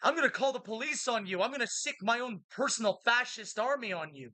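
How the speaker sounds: mock Earl threat. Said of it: "that's what the Earls are like".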